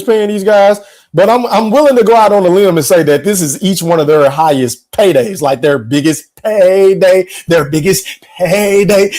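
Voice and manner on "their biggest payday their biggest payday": lightly imitated boxer's accent, drawn-out payday; Canelo. Host hyping the fighters' biggest payday, slow mild boxer impression. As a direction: stretch it slowly in a slight mock accent. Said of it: "in my Canelo voice".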